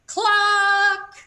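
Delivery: high loud sung cluck; mighty chicken cluck; loudest cluck. A narrator's reading. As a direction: cluck like a proud hen. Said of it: "her loudest cluck".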